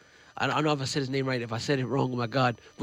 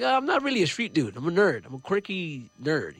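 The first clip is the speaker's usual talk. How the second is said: self-deprecating protest; 4 semitones higher than usual. Retold or imitated. Acting out his reply to friends.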